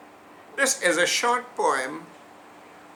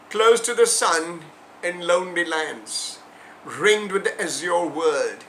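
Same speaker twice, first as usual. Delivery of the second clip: poetry recitation. Acted. Recites The Eagle poem.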